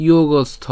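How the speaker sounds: "যোগস্থ" with an aspirated th after the s; careful pronunciation. Shown as a demonstration. Teacher answers how it is pronounced, careful "যোগস্থ". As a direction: say "যোগস্থ" carefully, sounding the final থ. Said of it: "এর উচ্চারণ কী হবে?".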